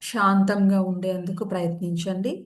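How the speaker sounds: calm, even yoga nidra guidance; measured meditation-teacher voice, unhurried gaps between phrases; guided meditation. Real, not acted. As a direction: settle listeners into stillness, with long pauses between instructions.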